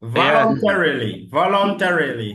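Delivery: "Voluntarily" with an American R, syllables spelled out; careful American voluntarily. Shown as a demonstration. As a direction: pronounce "voluntarily" as vɔlɔntɛɹili, each syllable clear. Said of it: "Vous voyez?". ("voluntarily" prononcé à l'américaine, bien détaillé)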